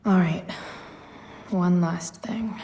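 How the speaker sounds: whisper. Real, not acted. Muttering to herself in the game.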